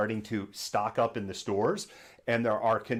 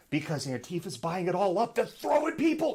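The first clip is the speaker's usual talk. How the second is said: mock theorist; 9 semitones higher than usual. Mocking imagined theory.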